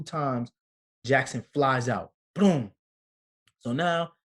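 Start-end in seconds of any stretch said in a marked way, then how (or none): 2.3-2.7 punchy, higher and louder "boom"; a sudden pop for the arrival; imitated boom. Father telling how his son flew out, punchy boom.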